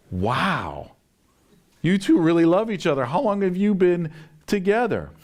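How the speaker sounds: can't hold it in, gushing; amazed outburst. Retold or imitated.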